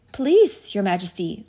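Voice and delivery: anxious appeal to royalty; pleading fox. A narrator's reading.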